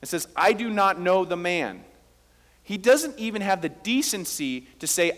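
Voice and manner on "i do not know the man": firm, emphatic denial; a forceful quoted denial; stronger denial. Retold or imitated. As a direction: deny it firmly, stressing each word. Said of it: "with a stronger response".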